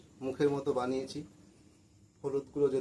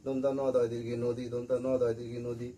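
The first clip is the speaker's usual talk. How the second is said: monotone spelling-out by rote; rote memorizing; 3 semitones lower than usual. Shown as a demonstration. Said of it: "এইভাবে মুখস্থ করব না". (মুখস্থ বলার মতো একটানা সুরে)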